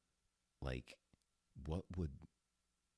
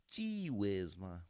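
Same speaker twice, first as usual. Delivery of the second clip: put-on higher, whiny boy voice; mock fifties son; 6 semitones higher, slower than usual. Son protesting to his Ma, mock boy voice. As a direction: play an embarrassed kid.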